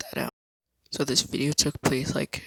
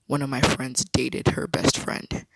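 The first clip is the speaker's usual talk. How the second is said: slow whispered line, dated stressed; slower than usual. Shown as a demonstration. Telling viewers a key detail, dated stressed. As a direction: lean on the word dated, slow and hushed. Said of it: "emphasis on dated".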